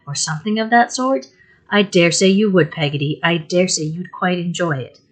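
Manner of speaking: pleading and hurt, voice lifted in distress; tearful, aggrieved mother. Acted. Mother scolds Peggotty through tears, tearful. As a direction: wound up, tearfully scolding her maid. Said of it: "shedding more tears than before".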